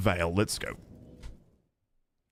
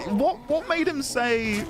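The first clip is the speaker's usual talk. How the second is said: incredulous; 8 semitones higher than usual. Real, not acted.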